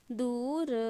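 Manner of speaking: प्रादुर्भाव softly split, "praa-du-ra-bhaa-va"; low-key, separated sounds in प्रादुर्भाव; sounded out. Shown as a demonstration. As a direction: dictate प्रादुर्भाव syllable by syllable. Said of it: "वैसे ही लिख के देखिएगा".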